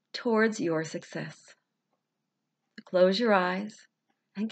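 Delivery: unhurried, soothing guidance; guided visualization. Acted. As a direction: ease them into calm, phrase by phrase.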